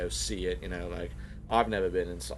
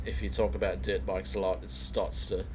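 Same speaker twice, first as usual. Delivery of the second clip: put-on Australian accent. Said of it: "this is more of an Australian accent".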